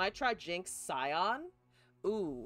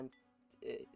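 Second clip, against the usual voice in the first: talking while crunching a snack; words between bites of chips; 4 semitones lower, 5 dB quieter than usual. Real, not acted. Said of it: "Apologies for the crunching".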